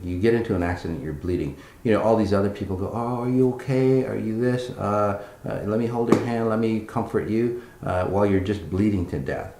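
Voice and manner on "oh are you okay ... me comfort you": higher, louder, overly sweet concern; mock fussy comforter. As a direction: coo at the wounded person uselessly.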